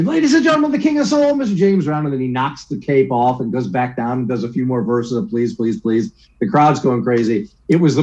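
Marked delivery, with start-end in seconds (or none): 0.0-2.1 much higher, ringing showman introduction; announcer call. Retold or imitated. Announcer introduces a singer to the crowd, high and ringing. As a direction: hype the crowd like a stage announcer. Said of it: "The announcer".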